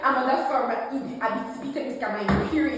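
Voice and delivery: put-on Quebec accent. Shown as a demonstration. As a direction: lay on a Quebec accent for older folks. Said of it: "they're gonna get my Quebec accent".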